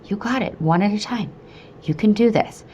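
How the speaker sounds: reassuring little pep talk; encouraging mantra. Retold or imitated. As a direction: cheer yourself on gently, with pauses. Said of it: "repeating this to myself".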